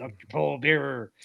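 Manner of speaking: rough, gravelly, creaky, raspy voice. Describing a horror film host from childhood TV: gravelly Doctor Paul Bearer voice. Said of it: "he had a real gravelly voice like this".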